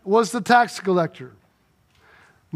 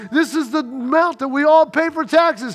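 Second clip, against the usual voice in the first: growing higher and louder protest; pleading farmer; 5 semitones higher, 3 dB louder than usual. Retold or imitated. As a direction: plead with rising frustration. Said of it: "And Joe's like".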